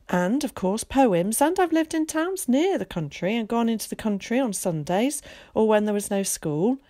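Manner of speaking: a lightly voiced chatty, confident boy; eager boy Zack. Zack introducing himself to Willie, lightly voiced and breezy. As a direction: play a breezy, talkative schoolboy.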